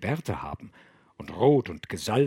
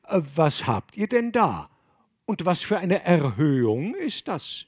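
curious abbot, voiced a little higher; a lightly voiced prying abbot; abbot questioning; 5 semitones higher, 3 dB louder than usual. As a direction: probe them like a nosy abbot.

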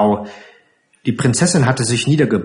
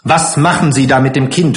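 brusque demand; 3 semitones higher, 4 dB louder, faster than usual. Acted. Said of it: "fragte sie ohne Begrüßung".

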